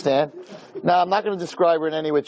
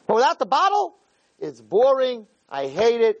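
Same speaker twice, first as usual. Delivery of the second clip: much higher mock whine; whiny complaint; 8 semitones higher than usual. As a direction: whine it like a spoiled kid. Imagined speaker complaining to Hashem.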